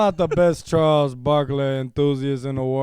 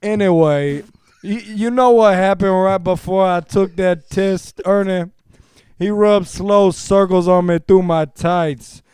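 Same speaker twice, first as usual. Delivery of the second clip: best voice. Pretend. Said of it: "I'm gonna read this in my best voice here".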